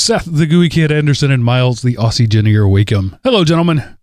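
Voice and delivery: lively podcast announcer delivery; host rattling off playful nicknames; show host intro. Acted. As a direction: introduce the show with rising flourish, then settle.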